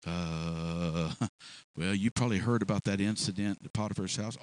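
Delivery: low, halting, dejected voice; downcast Joseph. Acted. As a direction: stammer it out, beaten down.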